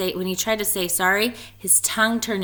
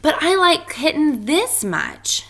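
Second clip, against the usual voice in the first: eager boast; 8 semitones higher, 5 dB louder than usual. Acted. Splat competing with Spike.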